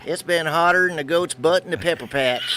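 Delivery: put-on hillbilly accent. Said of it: "in your best hillbilly voice".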